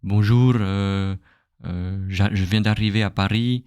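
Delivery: imitating a foreigner's French with a wrong R; mock learner saying "bonjour, je viens d'arriver à Paris" with an English R; foreign accent. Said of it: "they will speak like".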